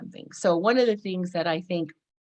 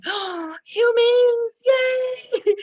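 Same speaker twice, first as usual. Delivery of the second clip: much higher, louder squeal of joy; giddy delight; 7 dB louder, much slower than usual. Retold or imitated. Woman meeting people after lockdown, giddy and thrilled. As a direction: gush like you finally see people again. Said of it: "And I'm like".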